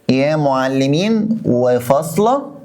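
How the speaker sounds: very slow, وفاصلة rising; writing the example on the board; slow dictation. Shown as a demonstration. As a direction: dictate with pauses between words. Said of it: "dictating example".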